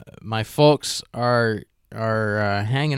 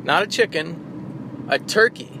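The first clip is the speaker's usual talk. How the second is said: turkey impression; 4 semitones higher than usual. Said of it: "That's my turkey impression".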